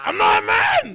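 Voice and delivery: very high, strained mock shout; retold protest. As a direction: wail it like an overwrought teenager. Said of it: "I remember being like".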